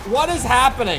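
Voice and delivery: high, loud bewildered cry; alarmed surprise. Real, not acted. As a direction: shout it in total confusion. Sudden truck bomb chaos.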